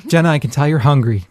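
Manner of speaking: usual speaking voice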